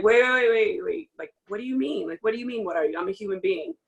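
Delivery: a player challenging an ignorant teammate, firm; modeling a pushback. Pretend. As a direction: stop them mid-sentence with firm pushback. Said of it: "that needs to be, like, addressed".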